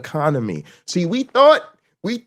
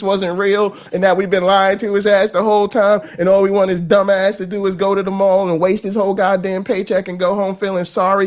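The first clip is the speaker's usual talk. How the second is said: gloating; 3 semitones higher, 4 dB louder than usual. Retold or imitated. Billionaires gloating at the public.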